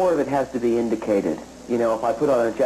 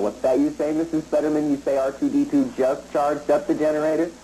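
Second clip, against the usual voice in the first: higher, repeating the caller's words as a question; Bob Newhart phone call; 4 semitones higher than usual. Shown as a demonstration. Actor demonstrates radio exposition, one-sided phone call. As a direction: echo an unheard caller for the audience. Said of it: "It's the old Bob Newhart phone call".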